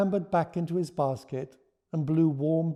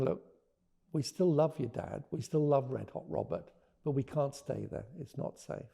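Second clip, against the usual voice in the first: gentle reassurance; 3 dB quieter than usual. Retold or imitated. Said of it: "a way of saying".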